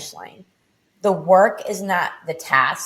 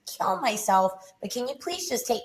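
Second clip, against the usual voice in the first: higher, desperate pleading, rising as it goes; retold desperate prayer, strained and raised; 5 semitones higher than usual. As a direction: beg to be taken, voice pushed up. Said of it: "and I prayed".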